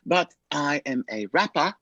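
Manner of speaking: lightly imitated British accent; put-on British voice, retold. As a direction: mimic a kid's pretend British rapper. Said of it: "started talking in a British accent".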